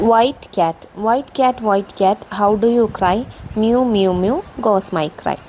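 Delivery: put-on measured children's verse reading; poem recitation. Shown as a demonstration. Teacher reading a model cat poem to pupils, gentle recitation. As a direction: recite with a slight lilt on each phrase.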